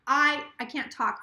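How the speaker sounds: tipsy slurring speech. Real, not acted. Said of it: "I've been, like, slurring all day".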